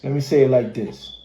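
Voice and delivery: breathy whisper, no voice. Shown as a demonstration. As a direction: drop to a secret whisper. Repeating the same line, now whispered.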